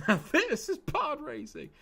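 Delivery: put-on high, excited kid voice; young Anakin impression. Streamer doing a high, excited Anakin quote. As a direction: cheer it like a thrilled boy. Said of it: "doing Star Wars impressions".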